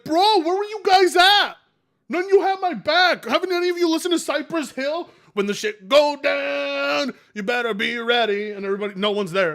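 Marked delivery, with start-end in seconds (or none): 0.0-8.5 mock shouted rant. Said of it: "he's like".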